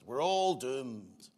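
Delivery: lightly imitated Scottish doom-monger, drawn out; Private Fraser. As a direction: stretch it slowly in a rough attempt at Scottish. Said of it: "I can't do the Scottish accent".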